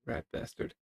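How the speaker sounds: hushed breathy curse; whispered curse. Acted. Hero whispering a curse at the villain Lynx. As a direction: spit it out in a whisper.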